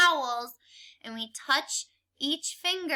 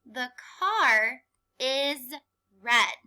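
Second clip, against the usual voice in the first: slow choral reading. Shown as a demonstration. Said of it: "Read it with me".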